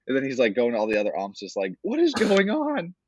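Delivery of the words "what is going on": much higher, slow mock bewilderment; exasperated high whine. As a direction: stretch it out like an incredulous coach. Coach appealing to other umps.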